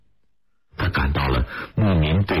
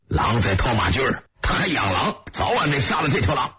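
angry cursing; 8 semitones higher than usual. A narrator's reading. Horseman cursing the man who keeps a wolf, angry, high-pitched. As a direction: narrator acting out a herder's curse in a raised pitch. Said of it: "只听见一个人大声骂道".

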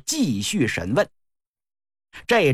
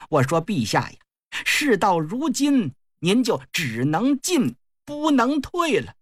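lightly voiced sneering consort; a cool, mocking push on the king; cold sneer; 2 semitones higher than usual. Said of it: "冷笑了一声".

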